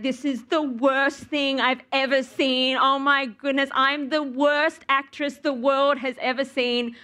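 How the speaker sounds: melodramatic, slow self-pity; mock despair. After watching her own takes, mock tragic wailing. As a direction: ham up the woe-is-me. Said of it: "wanna cry".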